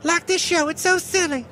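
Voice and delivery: a sassy rodeo queen sweeping in with a drawled "y'all"; high-pitched comic character who greets everyone and loves hipsters; Benita the Rodeo Queen. Acted. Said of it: "It's Benita the Rodeo Queen".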